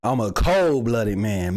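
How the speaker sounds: slow, deadpan tough-guy echo; slow mock tough. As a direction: drag it out like a hard man. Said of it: "repeats clip line mocking it".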